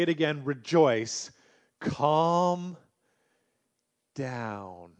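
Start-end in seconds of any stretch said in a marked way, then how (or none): 1.8-4.9 calm down. Shown as a demonstration. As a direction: ease the word Calm down gently. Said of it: "do you need to hear that".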